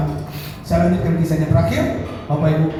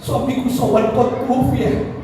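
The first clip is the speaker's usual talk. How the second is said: grieving widow; 7 semitones higher than usual. Acted. Wife tells the Prophet of her husband's death, grieving.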